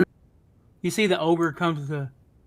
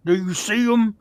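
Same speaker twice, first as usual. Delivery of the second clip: slow ogre voice; 3 semitones higher, 5 dB louder, slower than usual. Acted. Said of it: "not an ogre voice".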